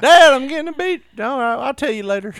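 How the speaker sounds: put-on high, loud hurried teen; teen kid voice. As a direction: play a startled teenager, loud and high. Kid voice playing caught teen.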